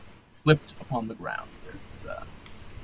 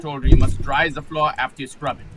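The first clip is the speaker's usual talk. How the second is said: fast, irritated scolding; scolding captain; 5 semitones higher, 5 dB louder, faster than usual. Acted. Captain scolds the cabin boy over the wet floor, fast and cross. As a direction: tear into the cabin boy quickly.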